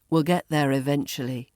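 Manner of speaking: "eventually" as ih-VENCH-uh-lee; reduced form. Shown as a demonstration. Teacher repeats the connected phrase, "eventually" as ih-VENCH-uh-lee. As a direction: run "eventually" into the phrase, shortened. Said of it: "Eventually becomes".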